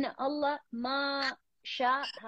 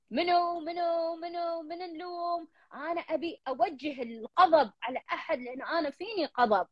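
higher, searching mock voice of the mother; mother seeking blame; 6 semitones higher than usual. Counselor voicing Majida's mother hunting for blame, higher. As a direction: lightly act out a grieving mother looking for someone to blame.

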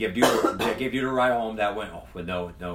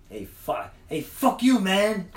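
sudden high, loud yell of fuck you; gang yelling; 10 semitones higher, 5 dB louder, much slower than usual. Retold or imitated. Mexican gang members yelling at the white guy, loud. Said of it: "they're like".

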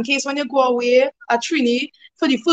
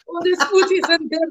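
lightly put-on flattery, higher; mock sweet talk; 5 semitones higher than usual. Example of flattering someone's food, pretend sweet talk. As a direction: pretend to praise the cooking, pitched up. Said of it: "Mama guy is sweet talking".

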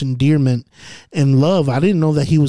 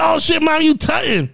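high-pitched mock amazement; hyped-up, high retold exclamation; retold excitement; 13 semitones higher than usual. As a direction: replay the reaction way up high. Retold reaction to mom's dancing.

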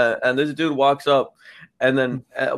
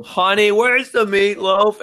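higher, louder mock yelling husband; 8 semitones higher, 5 dB louder, slower than usual. Man on the beach calling to his wife, a hammed-up yell. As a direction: holler for the meatloaf, hammed-up. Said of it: "I'd yell".

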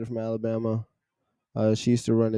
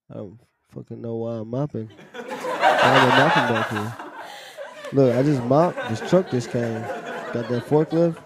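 laughing. Real, not acted. Laughing while retelling mopping.

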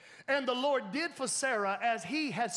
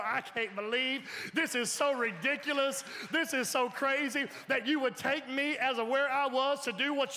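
laughing disbelief; 3 semitones higher than usual. Retold or imitated. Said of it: "And I just sit here and go".

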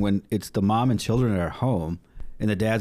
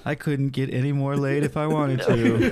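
weird voice impression; 3 semitones higher, slower than usual. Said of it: "Damn you, weird voice".

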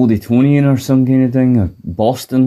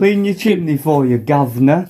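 higher-pitched fake London chimney sweep; mock Cockney; 3 semitones higher than usual. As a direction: ham up a stage Cockney accent. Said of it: "Dick Van Dyke levels of English accent".

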